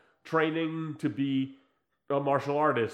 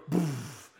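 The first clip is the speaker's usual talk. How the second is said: imitated shockwave boof; 2 semitones lower, 3 dB quieter than usual. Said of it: "like a spider sense would go".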